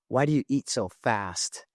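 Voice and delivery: a hint of a small child's voice, asking; little daughter's voice. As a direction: lightly play the little girl's curious question. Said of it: "She goes".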